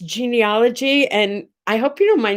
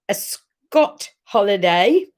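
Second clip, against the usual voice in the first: accidental Australian accent; slower than usual. Real, not acted. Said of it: "with an Australian accent".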